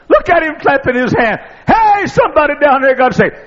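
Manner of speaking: high, loud whooping cry of joy; rejoicing shout from the pulpit; joyful shout. Acted. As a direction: holler it like a happy celebration. Preacher acting out Jesus rejoicing.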